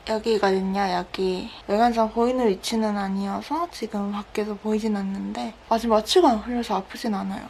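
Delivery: slurred numb mouth; numb from the dentist. Real, not acted. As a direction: talk through a numb, anesthetized mouth. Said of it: "마취가 아직 안 풀려가지고 좀 발음이".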